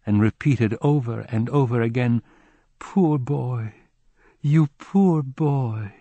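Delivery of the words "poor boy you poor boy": sobbing. A narrator's reading. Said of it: "She burst into sobs".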